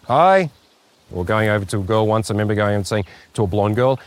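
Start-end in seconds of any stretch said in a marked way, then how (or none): 0.1-0.5 high, loud blurted greeting; nervous blurted hi. Retold or imitated. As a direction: burst out with it awkwardly. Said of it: "going out there and going".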